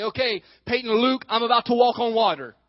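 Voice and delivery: playful announcement. Retold or imitated. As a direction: show off to the kids in the pool. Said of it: "I'll say".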